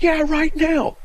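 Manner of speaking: loud, high mock-furious yell; imitated yelling. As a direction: imitate an exasperated man shouting an order. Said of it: "This guy's yelling at me".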